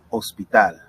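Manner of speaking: HOSPITAL begun on the O, Spanish style; silent H. Shown as a demonstration. Teacher giving an example, HOSPITAL with a silent H. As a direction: drop the H in HOSPITAL. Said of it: "The H is always silent".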